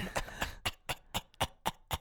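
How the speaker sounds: raspy wheezing laugh; breathy coughing laugh; smoker's laugh. Real, not acted. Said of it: "that's a smoker's laugh".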